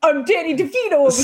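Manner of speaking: lightly voiced Danny DeVito, quick; a hint of Danny DeVito. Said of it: "And now do your Danny DeVito".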